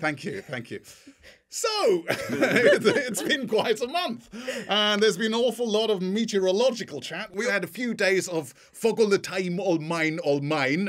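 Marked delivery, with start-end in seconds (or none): 1.5-7.3 high launch into presenter mode, half laughing; mock-formal opening patter; formal podcast voice. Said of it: "opening gags in a slightly more formal voice". 8.7-10.9 badly faked Geordie accent; half-hearted attempt at a Geordie accent. Shown as a demonstration.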